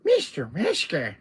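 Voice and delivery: slow, drawn-out little villain greeting; silly little villain voice; annoying little voice. Acted. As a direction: tease with the name, slowly. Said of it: "Salazar's little annoying little voice".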